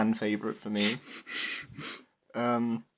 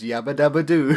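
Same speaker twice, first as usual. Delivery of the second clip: Fred Flintstone catchphrase; 3 semitones higher, 6 dB louder than usual. Retold or imitated. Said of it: "he says Fred Flintstone's line".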